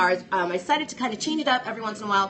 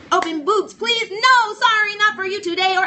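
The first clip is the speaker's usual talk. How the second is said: higher and louder, laughing at herself; flustered excited; 11 semitones higher, 6 dB louder than usual. Real, not acted. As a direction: blurt the slip then brush it off. Misreads, then corrects herself loudly.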